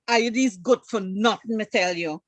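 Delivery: a playful Guyanese Creolese insult. Shown as a demonstration. Showing the host Guyanese Creolese, Guyanese accent. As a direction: say it in broad Guyanese Creolese, light demo. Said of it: "I'll do it like Guyanese styling".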